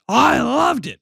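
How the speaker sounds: high, eager partner voice; a chirpy, quick yes from the other side; bright partner reply. Pretend. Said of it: "What did you think".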